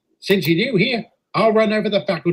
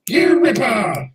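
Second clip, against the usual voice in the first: drawn-out, higher cheer; rousing cheer; 4 semitones higher, slower than usual. Acted. Faculty answering the call for votes, rousing cheer. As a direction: stretch it out like a rowdy vote.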